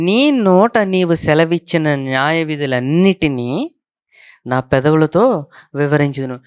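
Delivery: slow, word by word scripture reading. Shown as a demonstration. Preacher rereading the verse slowly to his congregation. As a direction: read it out slowly so every word lands. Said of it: "నెమ్మదిగా చదివితే అర్థమవుతుంది".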